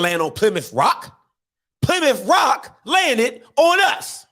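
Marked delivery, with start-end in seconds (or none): 1.8-4.3 emphatic shout. Real, not acted. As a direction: drive the last line home slowly. Punchline of famous quote.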